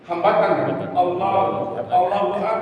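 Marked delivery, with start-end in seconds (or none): 1.9-2.6 Allahu Akbar with the k of Akbar held shut before release; correct takbir. Shown as a demonstration. Teacher modelling the approved takbir, firm k stop. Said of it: "Nah, begitu".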